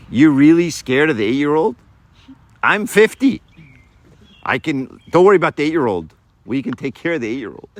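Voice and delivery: playful hammed-up father boasting; hammed-up dad bravado. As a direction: puff up like a proud dad. Dad reassuring son, hammed up.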